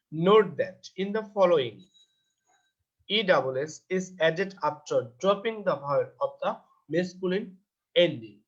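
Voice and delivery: reading "Note that" out word by word, very slowly; slow textbook reading. Acted. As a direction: dictate the English rule slowly to the class. Reads English rule aloud slowly.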